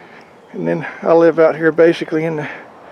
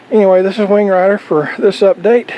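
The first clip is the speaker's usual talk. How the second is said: out of breath; 3 semitones higher than usual. Real, not acted. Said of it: "If you wonder why I'm out of breath".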